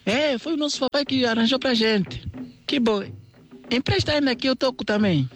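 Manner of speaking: put-on very high childlike voices; little animal voices. Young crocodiles greeting the rabbit's children, very high childlike voices. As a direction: sound like excited little ones.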